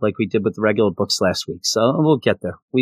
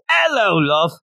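put-on "Hello, love." in a light Australian accent, opening "æloʊ"; 7 semitones higher, slower than usual. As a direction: greet like a cheery Aussie, "Hello, love.". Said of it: "It goes like this".

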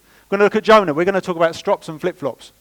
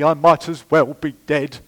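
Oscar-worthy strop; 3 dB louder than usual. Acted. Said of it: "exaggerated and Oscar-worthy".

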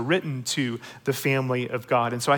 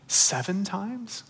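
slow, softer, stretched "seven times?"; drawn-out reveal; 5 semitones higher, 4 dB quieter, much slower than usual. Retold or imitated. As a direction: savour it as a dramatic pause-filled reveal. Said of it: "waiting for it, making sure everyone's paying attention".

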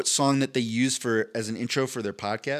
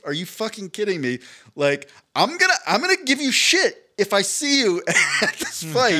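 mock outrage; 7 semitones higher, 5 dB louder than usual. Retold angry message to coach.

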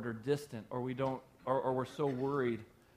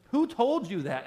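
louder, higher challenge; 8 semitones higher, 6 dB louder than usual. Real, not acted. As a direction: raise it, a loud high demand.

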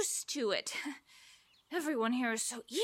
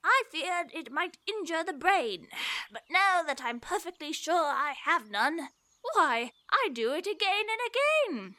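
put-on old Father William; 3 semitones higher than usual. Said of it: "Father William replied to his son".

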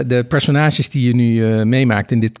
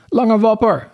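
high call from the swamp; 9 semitones higher, slower than usual. A narrator's reading. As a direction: hail a friend high and drawn toward them. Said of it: "riep Beertje vanuit het moeras". (hoog roepend vanuit het moeras)

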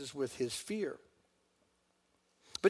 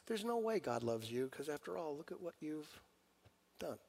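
hushed accusing Satan; 2 semitones higher, 5 dB quieter than usual. Retold or imitated. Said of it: "Satan saying to you".

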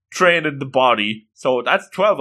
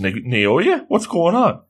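baffled, rising questioning; puzzled, climbing higher; acted confusion; 5 semitones higher, slower than usual. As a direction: question him in high-pitched bewilderment. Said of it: "this is where Nagisa's confused".

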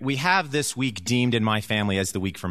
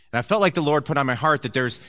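ordinary talk, nothing marked

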